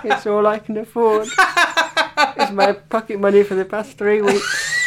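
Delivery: a hint of a hard-up little boy; pleading poor child. Co-host as child giving teacher fifty p, mildly pitiful. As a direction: lightly act the pitiful young giver.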